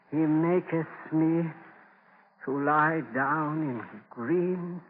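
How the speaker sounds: slow, fading psalm from a deathbed; weak dying recital. Acted. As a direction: breathe the words out as life slips away. Dying man recites psalm slowly.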